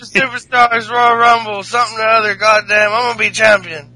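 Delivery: rambling mock-drunk wrestler promo; hammed-up boozy title claim; Jeff Hardy. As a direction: slur through a half-remembered boast. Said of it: "that sounded like Jeff Hardy".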